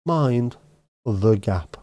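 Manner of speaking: train announcement. Pretend. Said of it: "Mandy could do train announcements".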